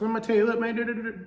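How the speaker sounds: high-pitched redneck cartoon-character impression; put-on high redneck mumbler voice; Boomhauer. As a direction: mimic a redneck accent, pitched well up, trailing into quick nonsense syllables. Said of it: "accent that kinda mimicked Boomhauer's".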